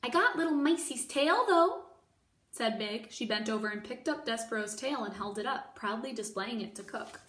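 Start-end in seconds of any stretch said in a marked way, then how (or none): 0.0-1.9 proud exclaim. Acted. Mig proud of tail.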